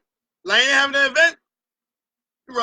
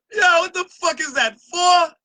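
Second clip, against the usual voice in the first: outraged disbelief; 5 semitones higher, 4 dB louder than usual. Real, not acted. Outraged at four bands.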